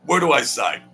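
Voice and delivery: grabbing the pen, Where do I sign? said eagerly. Retold or imitated. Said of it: "where do I sign repeated".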